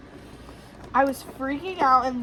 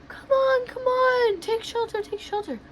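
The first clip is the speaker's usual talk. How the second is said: imitated urgent calling; 11 semitones higher than usual. People at the doors calling to shelter, urgent imitation. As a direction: call them in, high and urgent.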